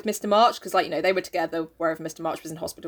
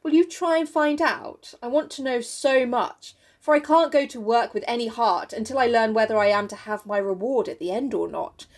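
persuasive. Acted. Mister Brooke wooing Meg for an answer, mildly persuasive. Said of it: "says in his most persuasive tone".

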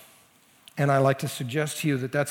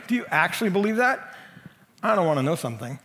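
mocking; faster than usual. Shown as a demonstration. Someone undermining what you believe, mocking. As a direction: cast doubt with a rising question. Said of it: "I'm mocking you".

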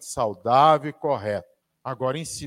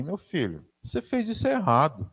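gentle correction; 5 semitones higher than usual. Retold or imitated. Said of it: "Por que que não fala assim".

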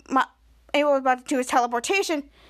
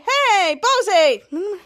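loud, high call across the room; 5 semitones higher, 6 dB louder than usual. Retold or imitated. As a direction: shout his name to get his attention. Calling out to a friend.

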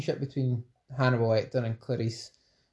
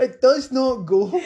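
laughing protest; 11 semitones higher, 6 dB louder, slower than usual. Real, not acted. Cracking up at failed accent.

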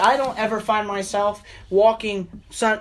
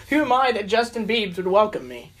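laughing. Shown as a demonstration. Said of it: "a singer".

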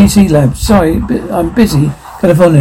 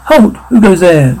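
sentry's shout. Acted. Guard challenges approaching group.

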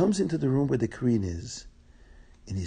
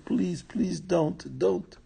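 slow, higher-pitched mock tearful plea; tearful pleading; 5 semitones higher, much slower than usual. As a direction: beg slowly, lightly acting the crying queen. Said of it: "she starts crying and crying and crying".

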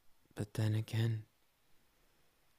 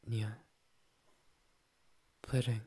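cutesy nya speak; 3 dB louder than usual. Acted. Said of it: "when I talk like a cat".

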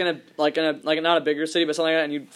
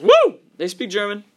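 excited cheer; 4 semitones higher, 6 dB louder than usual. Retold or imitated. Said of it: "They're gonna hear them be like".

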